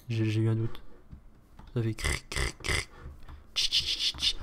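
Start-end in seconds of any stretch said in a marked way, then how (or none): 1.9-2.9 cricket chirp. Pretend. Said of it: "Ça fait quoi un criquet?". 3.5-4.4 cicada clicks. Pretend. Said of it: "on va faire les cigales".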